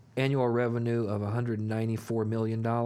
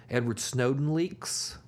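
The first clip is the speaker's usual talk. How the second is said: put-on Russian accent; slower than usual. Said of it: "What is this voice you just did?".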